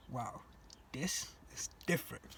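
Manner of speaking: breathless whisper of wonder; awed whisper. Retold or imitated. Newly landed boy at Boston airport, awed whisper. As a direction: whisper it in awe.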